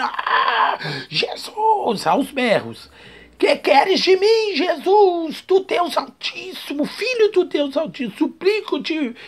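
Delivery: high, strained demon wail, far up in pitch; demon crying out. Retold or imitated. Preacher voicing the demon crying out to Jesus, shrill pleading wail. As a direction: shriek it like a tormented demon begging. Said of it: "diabo gritando".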